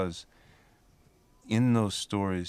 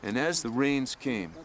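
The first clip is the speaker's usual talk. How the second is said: higher-pitched, deliberate storyteller's voice; myth storytelling; 6 semitones higher than usual. Acted. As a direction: tell it like an old legend, phrase by phrase. Tells a myth aloud.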